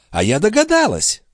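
put-on high, fast fussing old woman; mock-innocent old concierge. A narrator's reading. The concierge pretending not to know where the watch went, high and fussy. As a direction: play dumb, all fluster.

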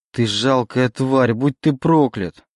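shouting curse. Acted. Oleg curses the demon, shouting slowly. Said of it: "кричал он".

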